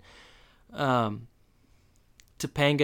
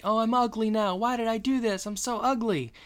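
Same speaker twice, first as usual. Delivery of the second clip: mock panic; 9 semitones higher than usual. Freaking out about her hair.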